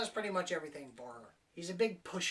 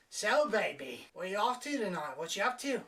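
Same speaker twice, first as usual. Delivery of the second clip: louder sleazy chat-up, lightly voiced; a touch of a pushy lech; creepy cab driver; 2 semitones higher, 4 dB louder than usual. Driver pressing the girl about her night, mock creepy. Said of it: "and he's like".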